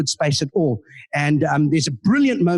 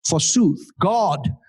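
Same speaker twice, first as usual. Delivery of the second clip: retold Shakespearean Richard. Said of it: "and I said".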